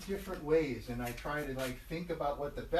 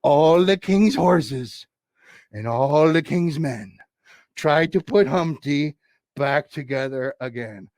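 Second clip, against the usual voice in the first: tag rhyme recital; 13 dB louder, slower than usual. Acted.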